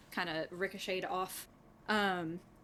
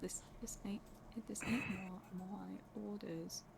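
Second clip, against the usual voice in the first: put-on drops the accent, much softer and slow; quieter, slower second take; quiet plain retry; 11 dB quieter, slower than usual. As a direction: redo it softly in your own voice. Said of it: "I don't know how to do an accent".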